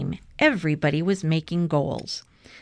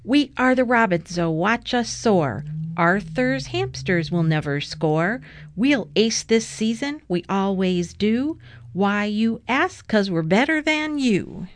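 rhythmic chant, pitched up at first; team cheer; 3 semitones higher than usual. A narrator's reading. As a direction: chant it to taunt the other team. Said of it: "Then she gave a cheer".

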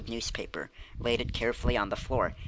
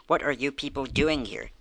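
demanding; 3 semitones higher than usual. Acted. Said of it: "demanded Missus Percy".

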